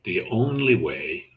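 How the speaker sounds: "only" stressed, the phrase left hanging. Shown as a demonstration. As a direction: lean on the word "only". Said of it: "Did you hear that?".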